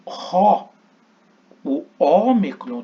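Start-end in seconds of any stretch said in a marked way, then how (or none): 0.1-0.7 "ro" called out high and loud with a strong rough breath; "ro" sung out loud, breathy h at the start; Greek word demo. Shown as a demonstration. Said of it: "veja que o artigo".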